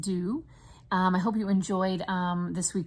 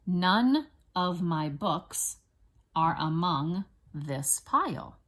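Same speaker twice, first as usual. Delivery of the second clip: put-on slow phrases for children to join in; deliberate, evenly spaced words; say-along dictation; slower than usual. Shown as a demonstration. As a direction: lead a class saying it together, unhurried. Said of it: "Try to say it with me".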